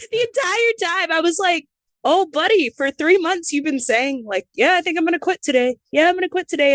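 high, teary half-laugh while telling it; laughing and crying at once at her own past; laughing through tears. Real, not acted. Wrestler recalls quitting, laughing through tears.

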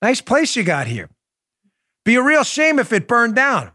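mock mobster menace, pitch rising high at the end; a hammed-up wiseguy threat; mob shakedown. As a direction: lean in like a smiling extortionist. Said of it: "people would come in a lot and say".

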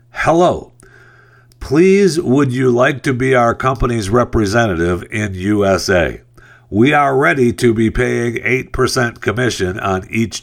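mock scam emailer. Reading a scam email aloud.

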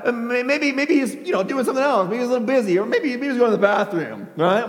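playfully mocking guesswork; poking fun. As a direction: muse aloud to tease them. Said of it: "begins to poke a little bit of fun".

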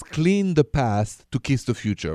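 slow, weighty delivery, clean leaned on; slow saying. Shown as a demonstration. Host giving heartbroken caller his motto, slow. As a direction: lay out the motto slowly so it sinks in. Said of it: "There's an expression that I love".

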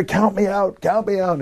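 high, pleading mock whine; whiny plea. Wrestler begging the referee to count him out, mock whine. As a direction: beg the ref to stop it like a hammed-up coward. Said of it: "'Cause I say".

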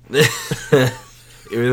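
raspy from being sick; hoarse voice. Real, not acted. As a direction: talk through a sore, scratchy throat. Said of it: "I sound like I've been smoking for thirty years".

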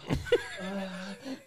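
soft, desperate sniffing; imitated deep inhaling. Stoned man inhaling the air conditioner, soft sniffing. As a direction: breathe in the cool air greedily. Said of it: "just smelling, dude, inhaling".

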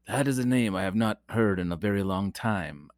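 lightly put-on accent, slightly hushed; a hint of a wise old Jedi quote; amateur film-quote impression; Obi-Wan Kenobi. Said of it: "I don't know what accent that was".

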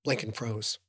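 ordinary delivery, nothing marked

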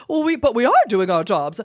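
whiny defensive panelist voice; mocking journalists. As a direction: play a flustered pundit making excuses. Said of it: "a whole panel of people talking about".

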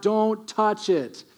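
slow, deliberate divine warning; stern God warning. Acted. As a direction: lay down a slow, firm command. God warns Israel about ark.

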